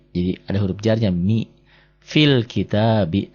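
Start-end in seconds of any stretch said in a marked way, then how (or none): 2.0-3.3 fil kitabi slowly, fi joined straight to l; slow, measured fil kitabi; linked reading demo. Shown as a demonstration. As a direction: model fil kitabi as one linked phrase. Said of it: "warna oranye ini nggak dibaca".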